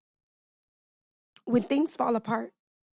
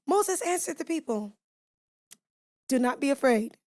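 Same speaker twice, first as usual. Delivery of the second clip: odd voice; 3 semitones higher than usual. Real, not acted. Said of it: "I don't know why I did that with my voice".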